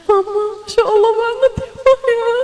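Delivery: put-on high, fast, awed child voice; nine-year-old tugging at mama in awe. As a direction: sound like a thrilled little kid. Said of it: "Anakmu umur sembilan tahun".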